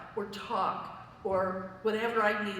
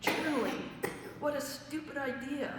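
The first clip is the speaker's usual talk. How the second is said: higher-pitched, incredulous inner protest; mock-indignant retold thought; scornful disbelief; 5 semitones higher than usual. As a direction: scoff at the advice, speeding up at the end. Retold indignant thought about journaling advice.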